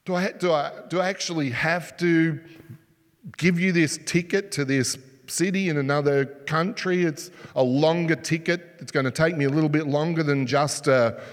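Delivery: mock grudging clerk, dragging her feet; lazy reluctance. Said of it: "A bare minimum kind of attitude".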